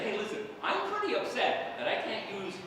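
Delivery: low, soft deadpan complaint; not seeming upset. Retold or imitated. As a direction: claim to be upset while showing none of it. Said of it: "You don't seem upset to me".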